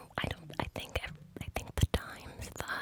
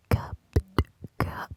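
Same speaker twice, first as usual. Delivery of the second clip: cupped hand whisper; 7 dB louder, slower than usual. Shown as a demonstration. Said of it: "cup whispers".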